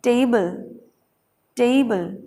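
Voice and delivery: टेबल as tey-bul; diphthong. Shown as a demonstration. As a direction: glide e into ee in each टेबल. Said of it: "क्या पढ़ना है".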